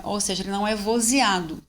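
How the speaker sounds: usual speaking voice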